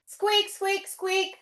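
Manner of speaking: high mouse squeaks; little mouse. Pretend. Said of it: "It's a little mouse".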